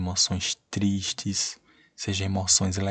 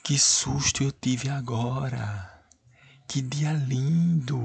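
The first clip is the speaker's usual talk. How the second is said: higher, slow, emphatic exclamations; exclamatory examples; 4 semitones higher, slower than usual. Shown as a demonstration. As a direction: read each as a real exclamation. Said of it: "Por exemplo".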